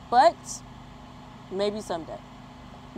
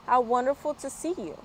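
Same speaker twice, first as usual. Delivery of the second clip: higher, lightly voiced delighted bird; bird's delight; 5 semitones higher, faster than usual. The bird welcoming Rocket back, a touch higher. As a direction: greet him with delight. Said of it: "she sang".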